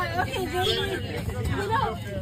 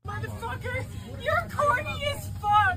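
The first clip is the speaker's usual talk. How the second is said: crying insult; 5 semitones higher than usual. Real, not acted. Restrained woman crying.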